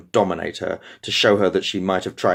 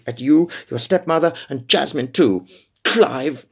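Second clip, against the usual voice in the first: defiant outburst; 4 semitones higher than usual. Acted. Defiant outburst, higher and louder.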